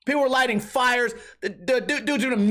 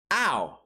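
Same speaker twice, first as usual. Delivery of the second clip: mock hurt ow; 7 semitones lower than usual. Hurt reaction.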